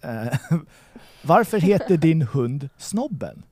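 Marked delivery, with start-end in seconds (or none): 1.2-3.4 varför heter din hund Snobben spoken slowly in Swedish; Swedish sentence. Shown as a demonstration. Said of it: "That was me in Swedish".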